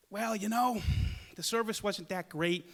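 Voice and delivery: soft, tactful hedging; nice about it. Retold or imitated. Mom politely judging the restaurant, soft and nice. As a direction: let her down gently, softly. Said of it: "she's nice about it".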